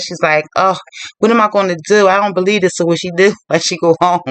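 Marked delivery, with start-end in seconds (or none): 0.6-2.7 retold dismay, a touch higher; lightly acted exasperated fretting; upset Minnie. Cook fretting to herself about work, mildly upset. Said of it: "so she's all upset".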